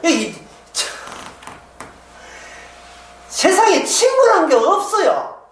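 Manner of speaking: a hint of a man over drinks, high and drawn out; mock drunken sigh about friends; lightly voiced drinker lamenting; tipsy lament. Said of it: "술 한잔 먹으면서".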